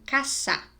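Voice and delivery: "caçar" with a hissed s, as in casa said cassa; S like double S. Shown as a demonstration. Teacher giving an example, demonstrated S sound. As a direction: keep the middle of "caçar" an unvoiced s. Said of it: "Parece dois S's".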